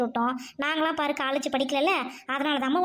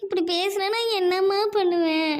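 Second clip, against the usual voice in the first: crying mother; 4 semitones higher than usual. Acted. Mother breaks down at daughter.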